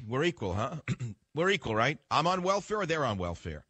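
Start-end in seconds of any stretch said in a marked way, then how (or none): 0.1-0.8 mock disbelief with a rising "huh?"; sarcastic question. Real, not acted. Sarcastic challenge to equality. 1.3-2.0 "We're equal" dropped flat and falling, then a short rising "right?"; sarcastic retort. Real, not acted. Repeats the jab, landing it.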